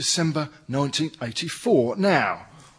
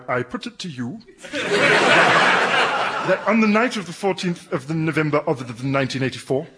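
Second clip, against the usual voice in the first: mock-posh formal police voice. Officer putting on posh for the recording, mock-posh. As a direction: put on a posh voice for the tape. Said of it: "But why are you doing it posh?".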